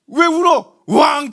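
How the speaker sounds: teary mock cry. Pastor retelling the teacher's question with a teary cry. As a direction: ask it through a mock sob. Teacher asks, child bursts out.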